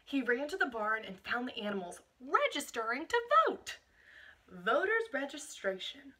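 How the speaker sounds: put-on reading a picture book aloud to children; picture-book narration for a class; storybook reading. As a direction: show them the page as you read.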